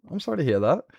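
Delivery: a hint of Stitch; lighter Stitch voice. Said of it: "I need to fix my Stitch".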